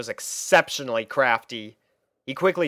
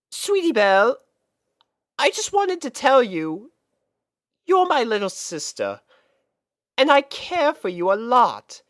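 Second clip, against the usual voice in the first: high, gentle big-sister voice; Rarity talking to her sister; 11 semitones higher, 3 dB louder than usual. Acted. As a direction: tenderly reassure your little sister.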